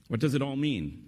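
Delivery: lifted voice, falling at the end. Real, not acted. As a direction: put the question briskly to the listeners. Speaker repeats the question as his own.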